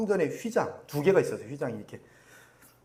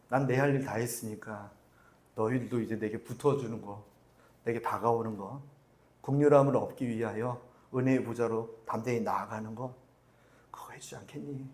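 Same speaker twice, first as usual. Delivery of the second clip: tender plea; 5 semitones lower, 3 dB quieter than usual. Acted. Jesus' gentle plea voiced.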